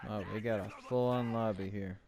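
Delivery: flat, even monotone delivery. Real, not acted. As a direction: keep it level and monotone. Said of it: "Sorry for my monotone voice".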